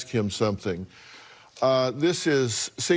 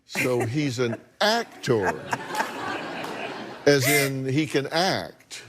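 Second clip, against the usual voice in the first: pointed insinuation; slower than usual. Real, not acted. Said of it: "I get what you're saying".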